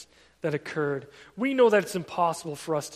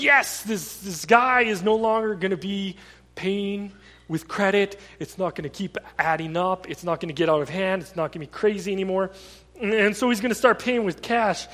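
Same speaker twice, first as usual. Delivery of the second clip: elated store owner; 2 semitones higher, 6 dB louder than usual. Retold or imitated. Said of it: "how elated would you be".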